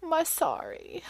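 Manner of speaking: put-on soft, high little-girl voice; sweet two-year-old consoling mom, slow; two-year-old comforting mommy, soft and high; toddler voice. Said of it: "she takes me by the face and she goes".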